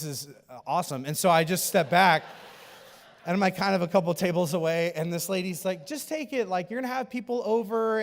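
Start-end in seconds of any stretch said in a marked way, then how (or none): 5.9-8.0 higher-pitched pushy coaxing; insistent church lady. Retold or imitated. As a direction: imitate a lady pressing cake on someone.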